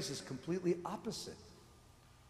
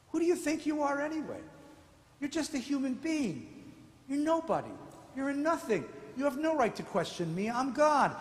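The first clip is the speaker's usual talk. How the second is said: scornful God; 6 semitones higher than usual. Retold or imitated. God rebuking Job, paraphrased.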